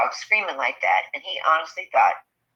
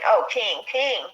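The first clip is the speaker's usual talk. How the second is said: retold calling out; 6 semitones higher than usual. Acts friend calling to his dog.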